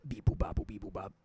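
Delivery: beeping like a toy robot; robot bleeps through a bit crusher. Pretend. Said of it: "I'm in the internet".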